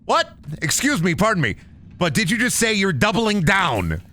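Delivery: mock offended double take; incredulous. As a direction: act stunned by the news. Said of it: "And I'm like".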